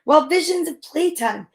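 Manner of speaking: measured, rhythmic picture-book narration; storybook read-aloud. A narrator's reading. Reader reading preschool story to little kids, measured rhythmic narration. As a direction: read the rhyme slowly to small children.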